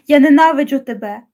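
understated hateful cry; a touch of a furious yell, not truly loud; mild shout. Acted. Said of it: "Я кричала на всю силу своїх легень". (стримано вигукнуто)

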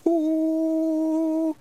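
a long, high, loud theatrical Ooh; poetic wail. Acted. A pixie poet launching into verse, theatrical high wail. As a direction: wail like a tortured bard.

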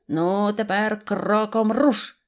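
slow, drawn-out marching order; drill command. A narrator's reading. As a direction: send the squad off with a stretched command. Hero orders his friend to march. (протяжна команда рушати)

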